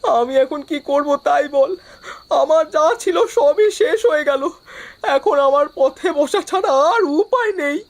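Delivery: tearful, helpless despair; crying lament. Acted. Ruined farmer asking friends what to do, crying. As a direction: plead through tears, all hope gone. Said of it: "অত কাঁদিস না".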